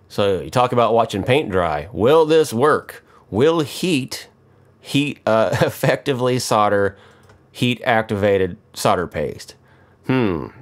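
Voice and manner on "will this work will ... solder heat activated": slow, high mock-dramatic question; mock suspense. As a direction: ham up the suspense. Mock suspense over solder.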